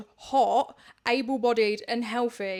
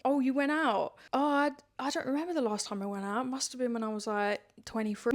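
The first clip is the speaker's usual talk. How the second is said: mock-innocent passive-aggressive remark, trailing softer; 4 dB quieter, faster than usual. People judging those who still go out dancing, passive-aggressive. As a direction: imitate someone lightly passive-aggressive about a night out. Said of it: "this sort of passive-aggressive energy".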